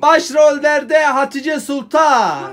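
slow, grand showman announcement; announcer voice. Pretend. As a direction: announce it like a big star's billing. Announcing the star, showman style.

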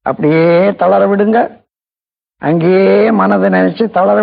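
measured meditation voice, long pauses; guided relaxation. Real, not acted. Teacher guiding listeners to relax feet and knees, unhurried meditation delivery. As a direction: guide them through it phrase by phrase, stretching key words. Leads a body relaxation exercise.

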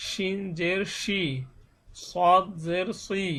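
slow, deliberate recitation of each letter with জের ending on ই; teacher spelling out each syllable slowly for beginners; slow jer drill. Shown as a demonstration.

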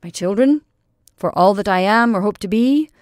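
a soldier imagining telling his children, with mock pride; proudly. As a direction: boast grandly to imagined grandchildren. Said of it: "say proudly".

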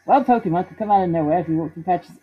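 lightly Australian character voice; a touch of Australian in the read-aloud; Australian accent. Acted. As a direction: slip into a slight Australian accent. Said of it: "I'm doing Australian, aren't I?".

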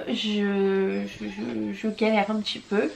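sleepy, heavy breathing, halting; groggy and short of breath. Real, not acted. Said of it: "vous l'entendez à ma respiration".

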